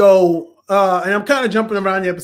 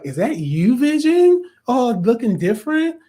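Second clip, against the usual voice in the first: questioning voice that leaps up high; puzzled rise at the end; imitated Wanda; 4 semitones higher than usual. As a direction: act out a surprised woman asking. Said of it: "and she's like".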